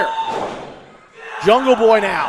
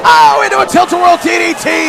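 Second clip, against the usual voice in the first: loud, rising play-by-play; excited call; 4 semitones higher, 4 dB louder than usual. Real, not acted. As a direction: call the reversal with urgency. Both calling a sudden reversal.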